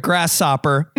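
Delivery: imitated reading slip, "grass-sopper"; mispronounced grasshopper. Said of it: "You're like".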